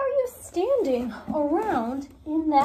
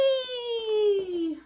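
excited; 5 semitones higher than usual. Pretend. Blasting off.

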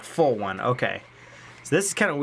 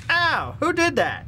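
high, slow mock-pained complaint; hurt creature act; 12 semitones higher, slower than usual. Player voicing the spider stepping in a trap, mock-hurt whine. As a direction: play the trapped monster whining in mock pain. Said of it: "he'd be like".

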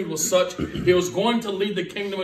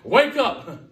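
high, loud, drawn-out call; wake-up call; 9 semitones higher, 7 dB louder, much slower than usual. Acted. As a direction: call out to rouse a sleeping congregation. Preacher calls people to wake up.

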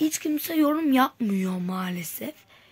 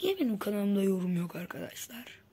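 whisper; 11 dB quieter than usual. Real, not acted. Complaining about no comments.

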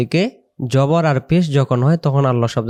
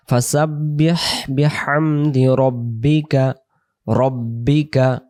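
whispered recitation. Shown as a demonstration. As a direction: whisper the verse to yourself. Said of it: "recitation demo". (ফিসফিস করে আয়াত পড়া)

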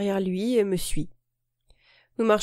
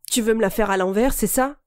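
roaring with rage; 3 dB louder than usual. Acted. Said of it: "Rugit-il hors de lui".

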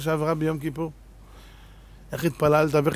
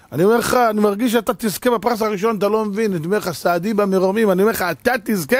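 raised, eager sales pitch; excited persuading; 4 semitones higher, 3 dB louder than usual. Retold or imitated. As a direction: push it like a pushy vendor. Excited vendor urging lottery ticket. (מכר נלהב ומשכנע)

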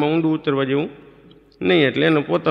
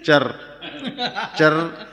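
creak sound; much slower than usual. Retold or imitated. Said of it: "અવાજ આવે ચર".

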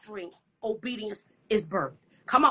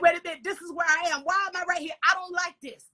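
quick, higher-pitched retold protest; mock protest; 5 semitones higher, faster than usual. Preacher retelling her reaction to reading the word, mock protest. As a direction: act out a rushed, higher objection.

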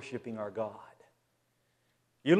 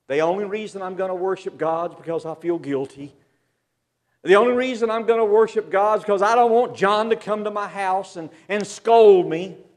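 grudging; 7 semitones higher, 11 dB louder than usual. Retold or imitated. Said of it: "No, he says".

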